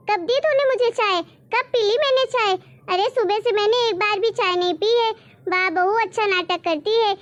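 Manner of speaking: put-on an old woman feeling wronged, protesting; indignant old mother-in-law. Mother-in-law disputes with bahu. (नाराज़ बूढ़ी सास की ऊँची आवाज़)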